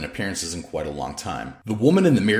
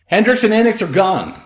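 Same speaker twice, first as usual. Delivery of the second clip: raised, higher voice across rooms; calling out; 13 semitones higher, 8 dB louder than usual. A narrator's reading. Lori answers Danny from her room, calling out. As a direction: call back from the next room. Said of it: "Lori called out from her room".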